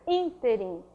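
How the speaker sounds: "ínterim" stressed on ÍN; stress on first syllable. Shown as a demonstration. Teacher giving a proparoxytone example, "ínterim" stressed on ÍN. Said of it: "a sílaba tônica dela é a antepenúltima".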